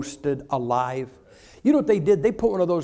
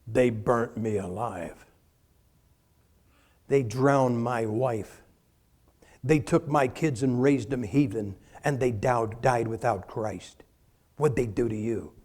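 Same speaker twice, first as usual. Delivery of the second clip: lower, softer, slow grave martyr's voice; solemn martyr; 6 semitones lower, 4 dB quieter, slower than usual. Acted. Ancient martyr asks the modern Christian, slow and grave. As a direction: speak slowly and heavily of what you suffered. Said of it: "the guy turns around and goes".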